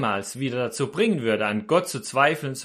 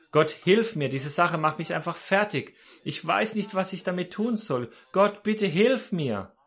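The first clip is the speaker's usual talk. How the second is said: mildly acted plea, drawn out at the end; pleading prayer; 3 semitones higher than usual. Preacher voices a worn-out believer praying to God, mildly pleading. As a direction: beg God with a touch of desperation.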